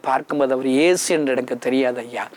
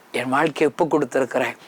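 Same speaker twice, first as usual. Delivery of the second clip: ordinary delivery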